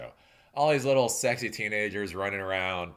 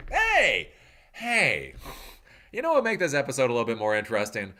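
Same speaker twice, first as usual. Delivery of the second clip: mock writer pitch; 4 dB louder than usual. Mocking the show's writers.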